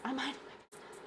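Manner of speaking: softly feigning innocence. Shown as a demonstration. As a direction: say it meekly, all innocence. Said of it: "repeats line, second much softer".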